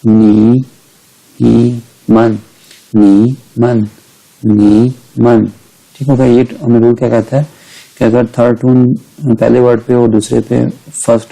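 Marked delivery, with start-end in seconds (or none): 0.1-5.4 नी as half third tone, मन light and neutral. Shown as a demonstration. Teacher showing third before neutral tone, नी halved before मन. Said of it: "इसको भी half pronounce करेंगे".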